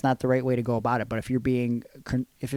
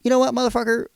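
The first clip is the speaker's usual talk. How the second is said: indignant; 4 dB louder than usual. Retold or imitated. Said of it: "I personally wanted to be like".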